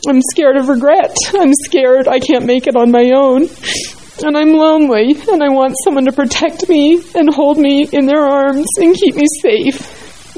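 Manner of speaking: emotional, close to tears. Real, not acted. Robin reading her letter to God, fighting tears. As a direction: hold back tears as you confess. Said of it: "I'm gonna be emotional".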